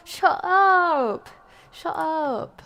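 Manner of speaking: loud yelled shut up; yelling. Real, not acted. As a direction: shout it in panic. Yelling at game scare.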